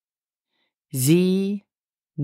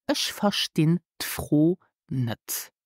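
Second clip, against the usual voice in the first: slow model sentence; slower than usual. Shown as a demonstration. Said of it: "So correctly is".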